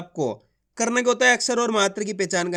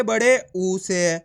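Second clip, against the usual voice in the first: drawn out; 3 semitones lower, much slower than usual. Shown as a demonstration. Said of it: "खींच खींच के पढ़ना है".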